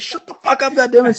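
high-pitched mock outburst at a crying baby; retold snapping at the baby, pitch shooting up; frazzled parent, played for laughs; exasperated outburst.

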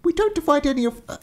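high, hurried nervous denial; a flustered servant covering a lie; panicked servant. Acted. Agent blurts to the giant, high and flustered. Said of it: "cried the dividing agent".

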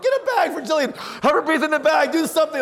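high, loud frantic dad; hammed-up panic, calling out commands; acted panicked orders. Dad ordering help for hyperventilating child, high loud mock panic.

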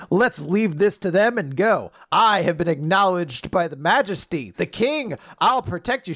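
grand declaration. Acted. Recapping a noble's boast to a companion, grand declaration. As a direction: declare it importantly. Acted quote of a haughty character.

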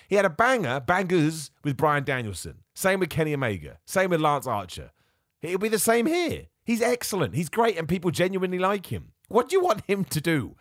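high, insistent protest; exasperated defence. Real, not acted. Fan defending Adam Page's title run to doubters, exasperated. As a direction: argue his case with mounting exasperation.

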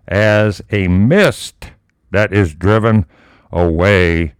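slow, solemn Bible reading; scripture reading. Acted. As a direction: read each phrase slowly, like holy text. Reads scripture passage aloud.

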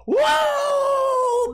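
screamed high whoa; celebratory whoa. Retold or imitated. Second cashier cheering a fifty cent donation, screamed whoa. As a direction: yell it like a wrestler hyping the crowd.

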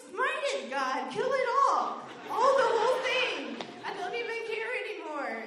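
mock furious prayer. Ordering God to kill the fly, loud mock fury. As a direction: demand God smite it, hammed up.

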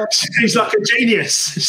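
amused, high and drawn out; laughing. Real, not acted. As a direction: laugh it out, slowly and delighted. Laughing at the cleaning lady story.

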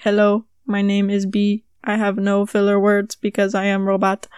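flat, even robot voice. Pretend. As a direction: speak like a stiff robot. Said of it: "I'm gonna turn into a robot".

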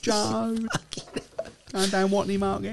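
high, hammed-up East End voice; East End auntie. Man hamming up the East End auntie, very high voice. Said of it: "East End, all with it".

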